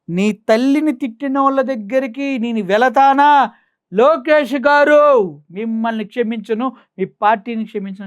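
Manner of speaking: stretched theatrical mock oath; mocking Pawan. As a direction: parody an outraged hero's speech, dragged out. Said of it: "అని చెప్పారు".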